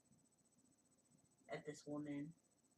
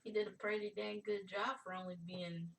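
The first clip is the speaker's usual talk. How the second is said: joking; 5 semitones higher, 7 dB louder than usual. Acted. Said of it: "I'm like".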